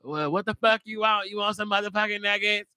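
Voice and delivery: rude fast food cashier voice; casual attitude drive-thru worker; ghetto AI cashier. Retold or imitated. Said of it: "Put a ghetto ass McDonald's".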